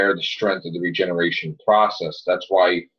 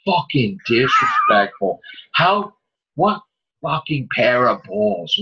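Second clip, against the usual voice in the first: ranting anger; 2 semitones higher than usual. Real, not acted. Fan venting fury at the writer over the Brigadier, heated rant. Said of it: "No, I was angry".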